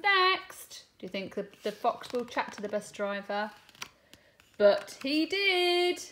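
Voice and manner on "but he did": lively, sing-song storybook reading with voiced lines; reading to children. Teacher reading a bus story aloud to her class, animated storytelling. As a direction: read it big for the little ones. Reads picture book to class.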